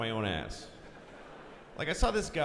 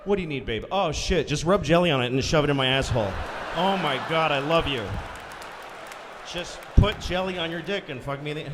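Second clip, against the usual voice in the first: mock eager wife; 4 dB louder than usual. Acted couple in store.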